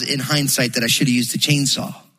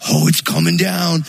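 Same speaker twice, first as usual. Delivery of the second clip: put-on louder, eager boys cheering the tree falling; mock the boys' excited shout as the trunk cracks; excited kids; 4 dB louder than usual. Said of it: "and they're like".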